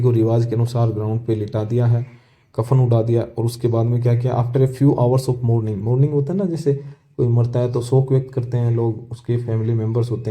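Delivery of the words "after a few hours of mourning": very slow, word by word; slow reading. Shown as a demonstration. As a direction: read the line slowly for the class. Teacher reads textbook passage aloud. (धीमे-धीमे पढ़कर सुनाना)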